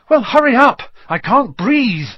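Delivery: high, loud strangled plea, slowing at the end; urgent gasp. A narrator's reading. Harry begs for help with plant round his chest, gasping. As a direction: gasp it out as if being choked. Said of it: "Harry gasped".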